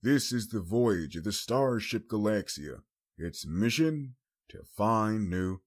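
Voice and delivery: lightly hammed-up space show narrator; grave announcer opening a space show, slowing at the end; mock serious voice. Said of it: "in a serious voice".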